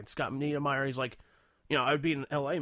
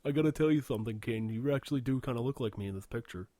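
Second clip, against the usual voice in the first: singer's voice; 4 dB louder than usual. Retold or imitated. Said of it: "back to the singer thing".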